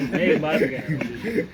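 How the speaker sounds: laugh, then press on loudly. Real, not acted. Visitor pressing an official over classrooms, laughing.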